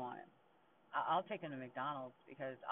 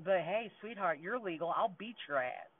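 louder, heated mock challenge; angry threat; 3 semitones higher, 6 dB louder than usual. Mother threatening the bully's mom, pretend angry and loud. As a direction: lay down a threat, punching it out.

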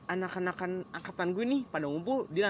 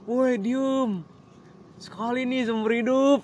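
friend shushing; 7 semitones higher, 7 dB louder, slower than usual. Retold or imitated. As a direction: shout at the crowd to shut up. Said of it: "temen gue".

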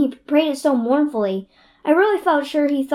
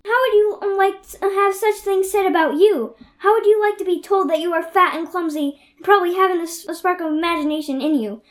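angry crying. Acted. Anne's tantrum at Missus Lynde.

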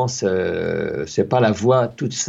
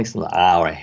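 ordinary talk, nothing marked

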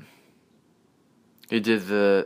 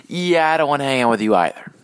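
higher, louder mock refusal, less hurried; offended white guy; 5 semitones higher, 4 dB louder, faster than usual. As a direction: refuse pointedly in a lightly acted voice. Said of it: "black guy is racist to white people".

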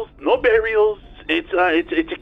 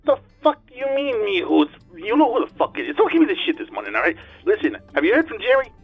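tinny talking telephone; 3 semitones higher, 4 dB louder than usual. Acted. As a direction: voice over a speakerphone. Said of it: "answered with the speaker on".

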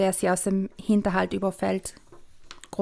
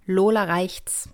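whispered title; slower than usual. Shown as a demonstration. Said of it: "title whispered".

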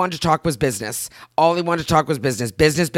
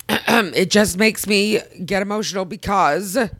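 emotional, slow, voice catching with tears; choked up, slowing down; tearful; 3 semitones higher than usual. Real, not acted. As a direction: push slowly through real tears. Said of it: "we're both crying".

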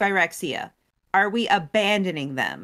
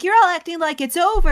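higher, louder and fast; indignant outburst; 9 semitones higher, 6 dB louder, faster than usual. Retold or imitated. Chandra snapping at her worried friends, louder and fast. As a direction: blurt it out in frustration.

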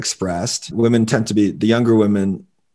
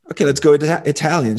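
a touch higher, hopeful suggestion; lightly voiced boyfriend; 5 semitones higher, faster than usual. Boyfriend suggesting Italian to his girlfriend, mildly hopeful. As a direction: pitch Italian like it settles it. Man proposes Italian to woman.

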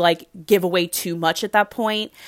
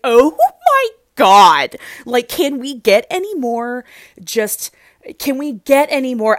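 exasperated oh my God; 4 semitones higher, 6 dB louder than usual. Retold or imitated. Her own exasperated reaction.

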